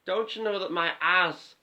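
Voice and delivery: Tommy Wiseau voice. Acted. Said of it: "Tommy Wiseau".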